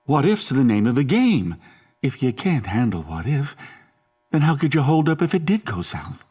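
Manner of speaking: exasperated lecture with pitch swinging up; stern scolding. Acted. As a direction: lay into him with rising, pointed questions. Father berating his son.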